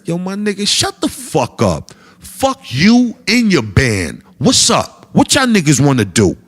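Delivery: loud, rising threat; fed up. Retold or imitated. Comic telling off the whole band, loud threat. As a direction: tell them off and invite the fight. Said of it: "I said".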